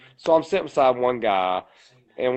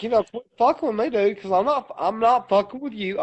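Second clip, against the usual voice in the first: fast and much higher; fast, high-pitched bar-fight warning; retold angry warning; 7 semitones higher than usual. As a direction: rattle off the warning in a heat.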